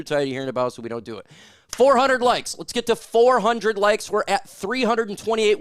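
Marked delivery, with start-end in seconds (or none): 1.7-5.6 pumped-up call for likes; rally the chat to hit the goal; hyped like goal. Real, not acted. Streamer rallying viewers for likes, pumped up.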